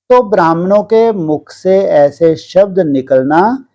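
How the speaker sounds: slow, measured devotional reading; scripture reading aloud. Acted. Teacher reading a sermon to disciples, measured scripture reading. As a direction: read it out deliberately, with long pauses between phrases.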